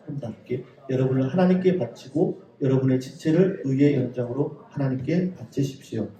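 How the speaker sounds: measured, subdued Bible reading; formal reading aloud of scripture. Acted. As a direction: read the verse out evenly and softly. Reads the Bible verse aloud.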